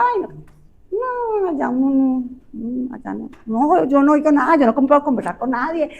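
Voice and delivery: mock reluctant excuse; reluctant hard of hearing person. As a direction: beg off the party. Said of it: "Qué hacen las personas".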